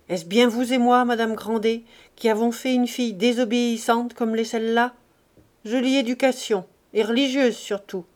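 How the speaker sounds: a miserly father scolding loudly; old Grandet angry. Acted. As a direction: berate them like a tyrant of the house. Grandet scolds wife and daughter. (père avare qui gronde fort)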